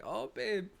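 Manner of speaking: high, feeble mock moan for painkillers; acting out own headache moaning; moaning imitation. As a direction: play up a pitiful, needy whinge. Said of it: "I'll just moan about it".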